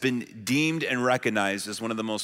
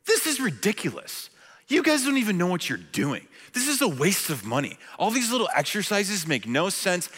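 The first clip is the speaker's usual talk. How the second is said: retold rant; 5 semitones higher than usual. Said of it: "And I said".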